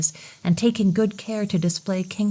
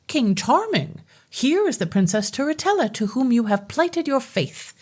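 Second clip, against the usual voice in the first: lightly raised, grand fairy voice; fairy's announcement; 5 semitones higher than usual. Acted. Fairy presenting the bride to the king, lightly raised and grand. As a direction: present the bride with a hint of triumph.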